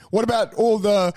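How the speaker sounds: mock indignant online commenter voice; whiny commenter. Mocking a commenter complaining on a memorial page. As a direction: whine it like an aggrieved stranger. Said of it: "and then someone else going".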